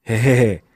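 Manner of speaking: short spoken "he, he, he" laugh; acted chuckle. Character teasing the one sitting and yawning, chuckling. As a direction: give a brief mock chuckle.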